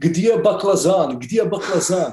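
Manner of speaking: high-pitched, shrill screaming. Retelling running into the wings, calling to students for his missing cup: retelling his own screaming. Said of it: "I'm like screaming to these students".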